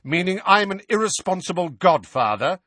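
high, loud, affronted demand; voice rising. A narrator's reading. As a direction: demand it with your voice climbing. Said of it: "his voice rising".

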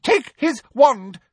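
high, loud, slow command; barked order. A narrator's reading. Professor ordering a henchman, barking. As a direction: bark it at an underling. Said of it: "she barked at someone".

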